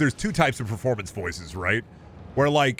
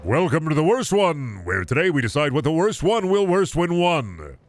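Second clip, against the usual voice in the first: louder, higher hyped YouTuber intro; old YouTube-intro energy, louder and higher; 6 semitones higher, 4 dB louder than usual. Shown as a demonstration. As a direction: greet the viewers like an over-the-top channel host. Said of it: "I don't really use that voice".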